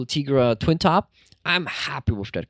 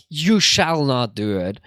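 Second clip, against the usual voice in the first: slow, firm commanding shall; stern command; 3 semitones lower, 3 dB louder, slower than usual. Shown as a demonstration. Demonstrating the stern commanding use of shall, slow and firm. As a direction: lay down the law with You shall not do it. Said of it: "I don't say it like".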